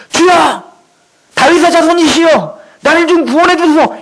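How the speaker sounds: lightly acted beggar crying out to the Lord; a hint of frantic pleading; sick man crying to Jesus, half-acted desperation; mock desperate plea. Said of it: "발버둥을 치지도 않았다고요".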